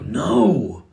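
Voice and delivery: parent's retold shout. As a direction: stop the child in her tracks. Father stopping daughter, retold.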